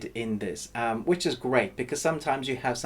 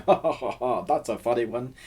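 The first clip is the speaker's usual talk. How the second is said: hammed-up fake laughter; a canned chuckle at a weak joke; mock forced laugh. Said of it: "you're going".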